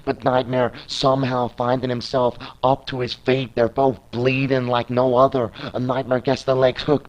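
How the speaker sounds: lebhafter Ringsprecher, der jede Aktion mitzählt; Play-by-Play-Kommentar. Acted. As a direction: kommentiere das Match live und treibend. Live wrestling play-by-play.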